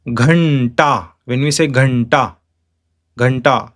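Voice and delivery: Ghanta with held curled-tongue n before ta; Ghanta, aspirated gh and retroflex nt; retroflex anuswara. Shown as a demonstration. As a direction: lengthen the n in Ghanta. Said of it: "naturally the N, N comes".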